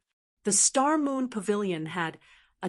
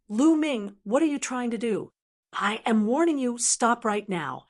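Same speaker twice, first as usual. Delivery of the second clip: raised, forceful warning; shouting warning; 3 semitones higher than usual. Acted. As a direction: shout him down, threatening. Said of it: "and he shouted".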